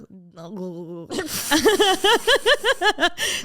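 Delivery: big bursting laugh; loud laugh. Real, not acted. Laughing mid story.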